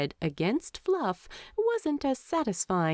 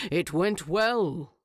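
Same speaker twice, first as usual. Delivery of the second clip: loud. Acted. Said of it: "Thorin said loudly".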